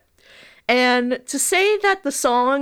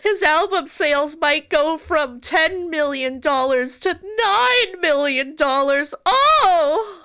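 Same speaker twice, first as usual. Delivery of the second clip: sarcastic mock dismay; 5 semitones higher than usual.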